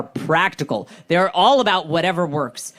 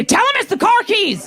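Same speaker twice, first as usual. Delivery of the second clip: much higher, louder mock mother-in-law; 4 dB louder than usual. Mother-in-law hurrying the prayer along, high and mocking. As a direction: chirp it like an impatient old lady. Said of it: "She'd say".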